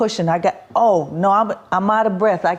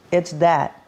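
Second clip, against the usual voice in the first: ordinary talk, nothing marked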